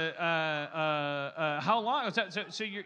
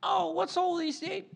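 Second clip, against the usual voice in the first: high-pitched mock British caricature; flawless British accent, supposedly; 13 semitones higher than usual. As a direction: squeal it as a cartoon Brit. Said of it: "I'll do a flawless British accent".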